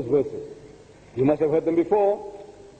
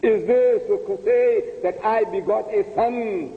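lightly voiced divine speaker, a touch higher; voice of God; 4 semitones higher than usual. Preacher voicing God's words to the congregation, lightly marked. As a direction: speak as the offended Lord, gravely. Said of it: "Allah says".

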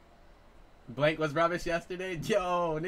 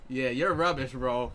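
put-on British accent; 5 dB louder, slower than usual. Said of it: "You gotta use that accent".

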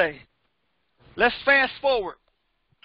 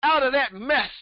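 fervent preaching. Real, not acted. Preaching with rising fervor.

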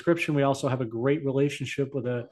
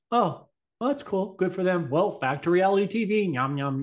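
higher, airy mock of an oblivious viewer; clueless public; 5 semitones higher than usual. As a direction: shrug it off like a careless TV watcher. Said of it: "the whole world's gonna be like".

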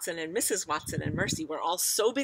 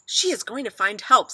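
loud, higher proclamation; confident father; 5 semitones higher, 11 dB louder than usual. A narrator's reading. Father believes the pig will fetch help, loud confident voice. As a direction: announce it with conviction. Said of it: "said Mister Watson".

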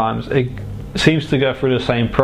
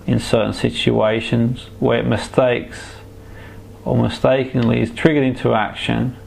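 right in your ear. Acted. Hypnotherapist guiding a relaxation trance.

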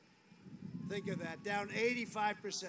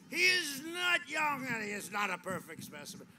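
mocking the press; 4 semitones higher, 6 dB louder than usual.

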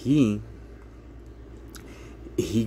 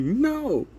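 flat refusal. Retold or imitated. Speaker refuses the offer.

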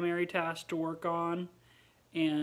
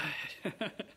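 soft laugh; 6 dB quieter than usual. Real, not acted. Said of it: "He was making me laugh".

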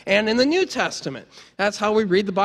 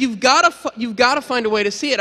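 urgent insistence; 3 semitones higher, 4 dB louder than usual. Retold or imitated. Speaker urging his friend to find the movie, insistent. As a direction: insist with mild astonishment.

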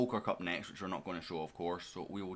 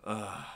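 short groan of "ugh"; frustrated groan; 2 semitones higher than usual. Real, not acted. Gamer rueing two big missed chances, frustrated groan. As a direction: groan over chances gone begging.

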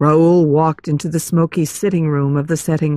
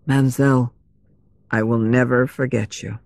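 tender farewell; 6 semitones lower, faster than usual. A narrator's reading. Parting words, kissing her trembling hand.

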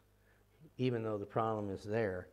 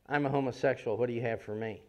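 angry demand; 2 semitones higher, 7 dB louder than usual. Retold or imitated. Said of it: "And he's angry".

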